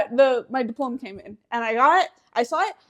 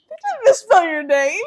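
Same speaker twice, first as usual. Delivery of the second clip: imitated indignant mother; 7 semitones higher, 6 dB louder than usual. Mom reading the diploma, retold.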